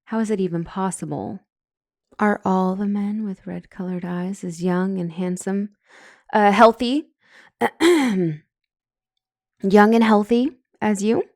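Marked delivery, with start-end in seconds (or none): 2.2-11.2 flustered flirting. Acted. Counselor flirting with client.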